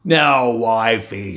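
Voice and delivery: slow, loud giant; giant drawl. Acted. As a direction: lord it over the kitchen. Giant demands.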